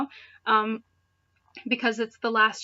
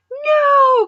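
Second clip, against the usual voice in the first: a much higher, louder cry of "No!"; anguished yell; 12 dB louder than usual. Acted. Clement seeing his broken helmet, a much higher, louder yell. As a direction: wail it as your life's work breaks. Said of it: "Clement yelled".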